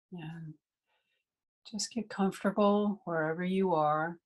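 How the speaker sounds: unhurried meditation guidance with long pauses; guided meditation. Real, not acted. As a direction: guide listeners gently into breathing, phrase by phrase.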